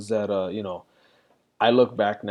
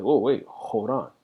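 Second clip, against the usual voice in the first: even, restrained stop; calm interruption. Retold or imitated. Dad pausing his kid instead of yelling, calm. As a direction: gently halt the kid without raising your voice. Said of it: "This is like".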